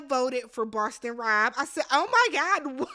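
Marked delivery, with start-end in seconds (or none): 1.9-2.9 oh my God cracked by a high laugh; stunned laugh at the vote; laughing disbelief. Real, not acted. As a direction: laugh out the shock, high and loud. Reacting to shocking vote.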